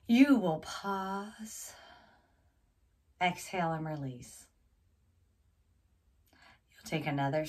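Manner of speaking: slow, measured meditation instruction; guided breathing. Acted. Coach leading viewers through slow breaths, guided meditation voice.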